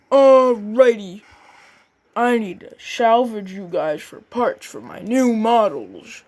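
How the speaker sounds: cheery boss man. Acted. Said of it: "he was like".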